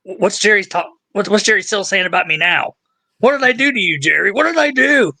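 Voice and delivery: exasperated pleading, pitch jumping up; Beardo. Acted. Imitating streamer confronting Jerry over his remarks, mock exasperation. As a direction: plead upward in mock grievance. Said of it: "I can see him now".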